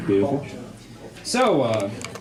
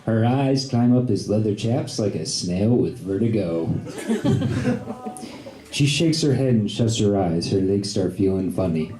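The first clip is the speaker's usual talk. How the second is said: poem recital; 3 semitones lower than usual. Acted. Reads a comic poem aloud.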